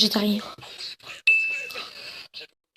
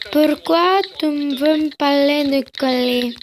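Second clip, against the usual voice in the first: exaggerated, stretched vowels. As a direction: drag the question out word by word. Question redone exaggeratedly.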